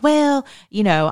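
high, loud mock excuse; lightly voiced lazy nurse making excuses. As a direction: hem and haw up high. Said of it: "nurses get lazy and they're like".

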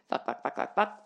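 rapid breathy string of curses; muttered curse burst; whispered swearing. Real, not acted. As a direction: hiss the swears under your breath. Swearing under her breath.

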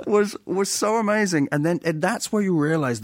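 high, laughing through the words; amused, half-laughing delivery. Real, not acted. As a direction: still giggling as you speak.

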